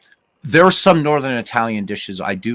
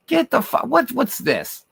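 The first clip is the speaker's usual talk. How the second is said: surprised outburst. Real, not acted. Reacting to a chat comment.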